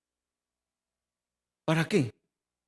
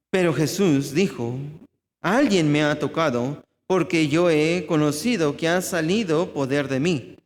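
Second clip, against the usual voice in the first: scripture reading. Acted. Preacher reads Luke to the congregation, steady and formal. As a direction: read the passage clearly and formally. Reads the Bible passage aloud.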